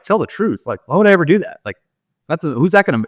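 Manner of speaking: high, scoffing disbelief at "Tell the truth."; incredulous sneer at being told "Tell the truth.". Retold or imitated. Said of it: "you're like".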